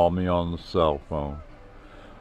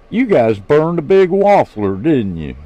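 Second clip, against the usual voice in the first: amused teasing; 8 semitones higher, 8 dB louder than usual. Acted. Laughing friends, Aussie slang.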